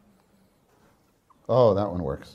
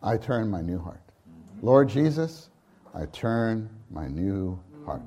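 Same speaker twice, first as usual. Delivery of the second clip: quiet confession; 4 semitones lower, 4 dB quieter than usual. Shown as a demonstration. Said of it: "Sometimes I just say".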